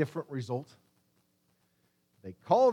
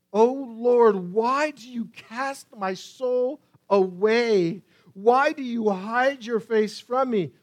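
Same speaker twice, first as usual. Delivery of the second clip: raised, louder anguished appeal; cry of despair; 3 semitones higher, 5 dB louder, slower than usual. Acted. Psalmist asks God why he hides, despairing cry. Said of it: "A cry of despair".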